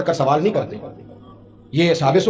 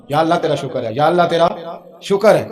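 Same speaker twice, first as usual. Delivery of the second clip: labourer's thanks; 2 semitones lower, 4 dB louder than usual. Retold or imitated. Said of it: "جتنا وہ بندہ شکریہ ادا کرتا ہے".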